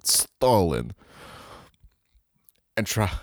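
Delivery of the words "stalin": low, drawn-out deathbed answer; lightly acted last words; dying Lenin. Lenin on his deathbed naming a successor, dying voice. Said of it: "Lenin's on his deathbed".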